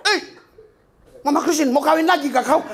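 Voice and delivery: joking husband over salty food; laughing mock complaint. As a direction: tease the wife through laughter. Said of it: "Sampai kau makan".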